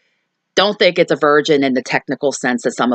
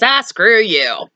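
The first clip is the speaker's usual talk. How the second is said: drawn-out, higher-pitched brush-off; mock grouchy retort; 5 semitones higher, much slower than usual. Neighbor answering a Halloween greeting, mock grouchy dismissal. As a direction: imitate a curt dismissal, dragging the words.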